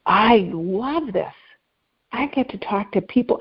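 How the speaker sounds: lingering, heartfelt enthusiasm; savoring delight. Retold or imitated. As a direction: stretch out each word as if savoring it. Quotes her delighted inner response.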